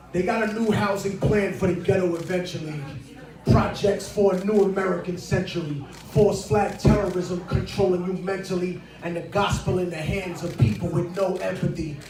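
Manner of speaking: rhythmic spoken word delivery; spoken word verse. Acted. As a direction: recite it like a verse. Recites rap verse.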